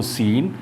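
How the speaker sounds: सीन starting with a plain s; no k after s in सीन; silent C. Shown as a demonstration. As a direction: say सीन as "seen". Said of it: "एस सी E N E को सीन".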